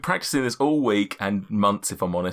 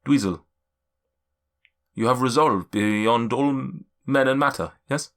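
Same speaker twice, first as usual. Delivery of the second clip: mystic figure's voice. Acted. Seer addressing each adventurer in turn, solemn. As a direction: speak like an ancient seer.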